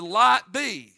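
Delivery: loud, booming command; voice of God. Acted. Preacher booming God's command "Light be". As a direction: proclaim it like God speaking. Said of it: "God said".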